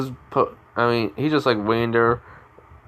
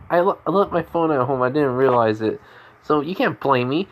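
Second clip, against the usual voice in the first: higher-pitched, stammered excuse; acted defensiveness; 3 semitones higher than usual. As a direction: lightly play a girl defending herself. Acting girl's defensive excuse.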